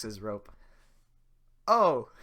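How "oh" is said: very high, loud yelp; Donkey yelp. Acted. Donkey yelps when his rope is jerked, high. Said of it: "says donkey".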